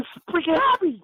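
ordinary talk

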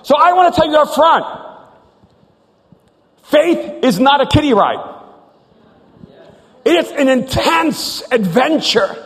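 high, emphatic preacher's delivery; impassioned preaching. Real, not acted. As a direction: drive the message home to the congregation. Preaches the point at full force.

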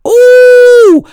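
a piercing high ooh of delight; high loud squeal. Real, not acted. Reacting to the sex tape.

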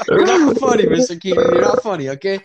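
loud mock scolding; tipsy bar argument. Real, not acted. Heated banter between friends.

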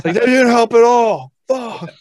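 high, loud, slow exasperation; a mock exasperated loser; frustrated contestant. Quiz contestant after a useless lifeline, high and loud.

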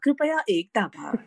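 lightly put-on telephone menu voice; auto-dialer prompt. Shown as a demonstration. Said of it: "these are the little prompts that you hear".

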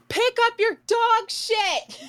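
high mock yell, dragged out slow; furious neighbor yelling about the dog mess; retold scream. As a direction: yell it at the neighbor from across the yard. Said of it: "So I scream like".

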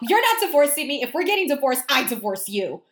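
high, huffy, mock outraged; staging a pretend standoff; mock indignant outburst. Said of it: "irrationally angry".

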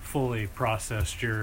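talking through a mouthful; eating cereal. Real, not acted. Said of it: "What are you eating there?".

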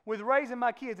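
slow, loud, pleading "Pastor"; a congregant complaining to the pastor, loud and slow; hurting congregant. Retold or imitated. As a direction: voice a struggling churchgoer crying out. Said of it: "some of you will say this morning".

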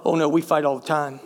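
laughing it off awkwardly; sheepish laughing denial; embarrassed laugh. Retold or imitated. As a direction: brush off the compliment with a chuckle. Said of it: "I was embarrassed".

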